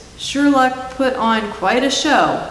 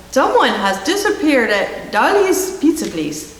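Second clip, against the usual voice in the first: laughing; 5 semitones higher than usual. Acted. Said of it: "the Scottish carrot constable".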